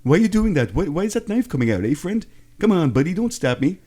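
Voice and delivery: high, jokey mock Canadian accent with lots of eh. Host hams up a Canadian accent to tease cohost, mock Canadian. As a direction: lay the hammed-up Canadian "eh" on thick. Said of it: "you're not Canadian".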